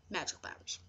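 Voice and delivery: whispered softly to herself. Real, not acted. Settling the quiz choice privately, whispered. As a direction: breathe the answer, voiceless. Answering her own wizard question.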